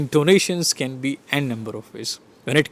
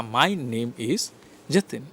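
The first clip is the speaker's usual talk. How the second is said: "Jatin" set apart and falling, softly; soft, closed statement ending on "Jatin"; 2 semitones lower, 5 dB quieter, slower than usual. Shown as a demonstration. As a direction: finish quietly downward on "Jatin". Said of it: "my statement is".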